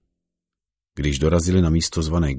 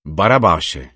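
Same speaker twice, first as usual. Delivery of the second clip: louder call of the crowd; 5 dB louder, slower than usual. Acted. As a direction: call the name out to the judge. (zvolání davu)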